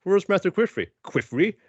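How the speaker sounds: a hint of startled story characters, lilting up and down; acted boy and granddad. Podcaster playing out the anime's flash of light scene, acted character voices.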